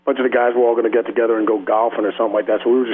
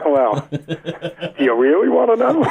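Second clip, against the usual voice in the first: laughing; 3 semitones higher, much slower than usual. Retold or imitated. Retold reply to doctor, laughing.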